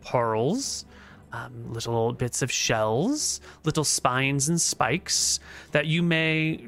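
goddess voice. Acted. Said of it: "and she says".

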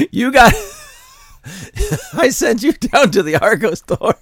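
a mother berating her son over the loot; scolding mother. Pretend. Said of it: "acted angry mother scolding son".

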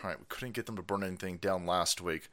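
low, soft, let-down mumbling; deflated mock quote. Host voicing plotters whose plan failed, low deflated tone. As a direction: act out schemers quietly giving up. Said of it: "now they're like".

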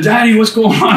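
high-pitched imitation of a kid; worried child. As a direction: voice a puzzled child asking Daddy. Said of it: "And my kids said".

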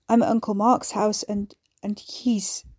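faltering into a gasp; words failing in shock; breaking off. Acted. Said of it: "he broke off, gasping".

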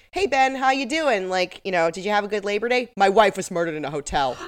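casually chatty, tossed-off; mock breezy. Host mocks the son dropping his wife's murder in casual chat. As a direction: say it like small talk over coffee. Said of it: "the way the lie was delivered".

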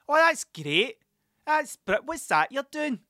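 high, put-on admiring voice; comic couple voice. Older couple admiring the guy's rubber duck, comic voice. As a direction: exaggerate an impressed couple, pitched right up. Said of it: "I'm just doing that voice for fucking".

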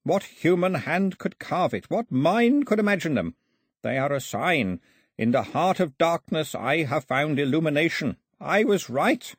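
put-on high, rapturous old believer; fervent exultation. A narrator's reading. Priest preaching his gods to Mao, fervent exultation. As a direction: proclaim it with awe and triumph.

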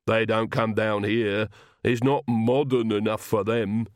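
slow, steady lisping retainer; lisping servant Igor, reassuring. Acted. Igor answers worried Magrat, slow lisping assurance. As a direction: lisp slowly, drawing out the words.

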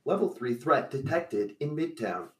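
flat robotic alert voice, repeated. Acted. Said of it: "robotic voice says".

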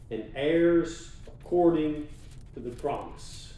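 slow, weighty proclamation; scripture reading. Acted. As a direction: read each phrase slow and firm. Reads scripture aloud.

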